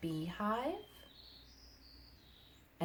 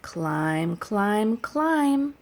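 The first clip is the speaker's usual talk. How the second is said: each climb higher and a bit louder; rising climb; 3 semitones higher, 9 dB louder, much slower than usual. Acted. Teacher acting out climbing the tree for kids, rising. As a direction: step up the pitch like climbing.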